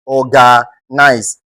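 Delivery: slow Organize broken into syllables, weight on OR; stress on OR. Shown as a demonstration. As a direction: lean on the first syllable of Organize. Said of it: "The O R here must be given prominence".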